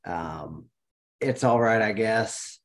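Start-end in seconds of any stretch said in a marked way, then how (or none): 1.2-2.6 deadpan meme voice. Shown as a demonstration. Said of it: "in that meme voice".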